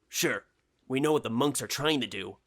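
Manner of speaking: lightly voiced, eager colleague; excited colleague. Chuck explains his discovery to George, lightly voiced eagerness.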